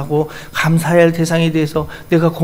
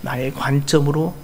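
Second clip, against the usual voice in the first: gentle God's voice. Acted. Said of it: "주님이 이렇게 말씀할 거예요".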